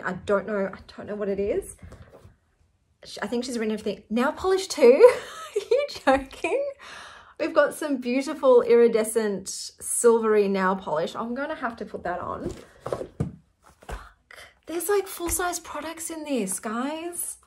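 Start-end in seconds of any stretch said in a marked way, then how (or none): 4.1-6.6 high squealing laugh into are you joking; delighted disbelief. Real, not acted. Delighted by more gifts. 13.9-14.4 breathless whispered curse; whispered swear. Real, not acted. Overwhelmed under breath.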